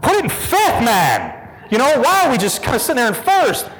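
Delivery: impatient mock plea. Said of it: "It was like".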